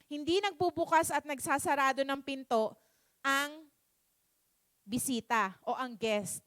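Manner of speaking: understated Lord, calmly measured with pauses; the Lord's reply. Acted. Lord repeating His answer about the door, low and measured. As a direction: answer softly, dropping low on the last words. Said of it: "same lang po yung sinabi ng Panginoong Jesus".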